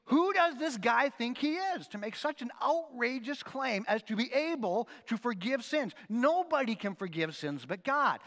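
scornful teachers of the law. Retold or imitated. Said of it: "they're thinking".

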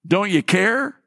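a worn-down believer begging the Lord, pleading; pleading prayer. Acted. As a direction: plead with God as if he isn't listening. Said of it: "have a tendency to say".

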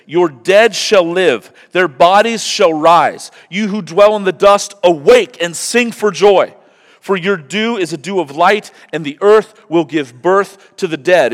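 high, loud preached reading; fervent scripture reading. Acted. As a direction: proclaim the passage with conviction. Reads Isaiah.

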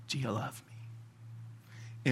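very slow, very soft, almost breath only; hushed question. Retold or imitated. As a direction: ask it gently, drawing it out. Voices Jesus's question after long pauses.

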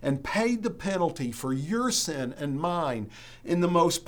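emphatic preacher, pressing key words with deliberate pauses; impassioned preaching. Real, not acted. Pastor urging congregation to treasure Jesus over money, impassioned preaching. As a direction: preach it with conviction, letting phrases land.

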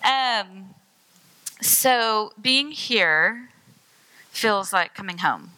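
slow, halting, holding back emotion; emotional. Real, not acted. Guest speaker greeting her home church, emotional. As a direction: pause between phrases to keep composure. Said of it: "so I'm gonna get emotional".

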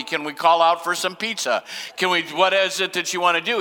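a hint of an obsequious host; mock fawning greeter. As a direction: play the eager people-pleaser sucking up. Imagining fawning over a rich man.

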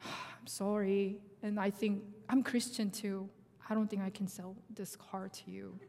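retold reluctant apology. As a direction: imitate a seller softly backing out. Seller's reluctant apology, acted.

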